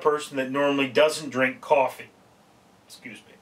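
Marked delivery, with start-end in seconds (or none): 2.9-3.3 hiccuping mid-sentence; interrupted by a hiccup. Real, not acted. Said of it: "I'm hiccuping".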